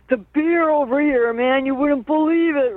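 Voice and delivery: high-pitched imitation of an amazed caller; acted gushing enthusiasm, pitched high; excited retold raving. Brother raving about German beer, retold.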